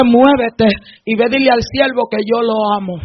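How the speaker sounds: God speaking. Acted. God telling a believer to go to the servant, low hushed voice. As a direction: bring it down to a hushed, deep instruction. Voices God's quiet command.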